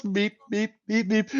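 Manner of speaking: creature meep. Retold or imitated. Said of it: "He just goes".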